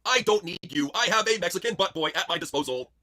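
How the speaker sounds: Charlotte Flair. Acted. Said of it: "Impression Charlotte Flair goes on a date".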